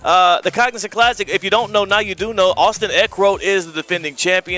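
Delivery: upbeat radio promo read; sponsor read. Acted. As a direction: pitch the tournament like a radio host. Reads a sponsor spot.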